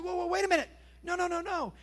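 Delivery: high, excited cut-off; urgent interruption. Acted. Father halting his son's apology, high and excited. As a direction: stop him mid-apology, eagerly.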